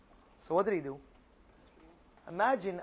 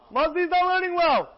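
higher and louder, certain; emphatic conclusion; 10 semitones higher, 7 dB louder than usual. Acted. Rabbi Abba concluding about Yossi, higher and louder. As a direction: stamp the conclusion down.

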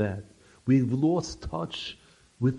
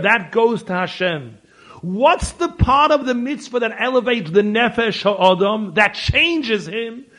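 raised, high preacher's voice; fervent preaching; 9 semitones higher, 12 dB louder than usual. Acted. Rabbi teaching the congregation about preparation, fervent preaching. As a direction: drive the point home to the congregation.

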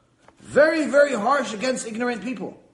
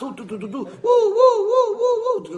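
high wailing siren imitation; mock siren woo woo; police siren; 7 dB louder than usual. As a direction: wail like a cop car siren.

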